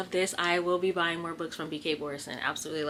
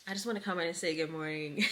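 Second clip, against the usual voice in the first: laughing. Real, not acted. Teary morning greeting.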